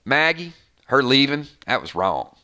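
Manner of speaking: hint of a Southern drawl, sinking very low at the end; understated mock Southern drawl; Maggie's Southern drawl. Fan imitating Maggie's talk about her leaving, mild Southern drawl. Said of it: "that drawl".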